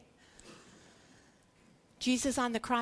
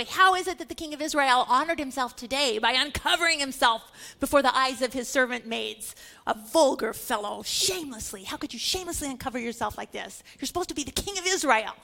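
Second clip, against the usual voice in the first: biting mock scorn, louder at the start; sarcastic; 5 dB louder than usual. Michal scolding King David for dancing, sarcastic scorn. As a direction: sneer at the king's shamelessness. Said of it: "she said in a very sarcastic way".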